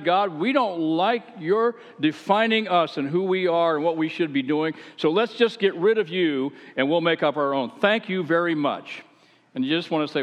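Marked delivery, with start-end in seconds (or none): 0.0-9.0 mock defiant crowd. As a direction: mimic a smug crowd brushing God off. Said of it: "you decided".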